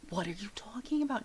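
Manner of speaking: fast hushed mother; angry whisper. Acted. Mother whispering fast at the stranger. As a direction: hiss it quickly at the stranger.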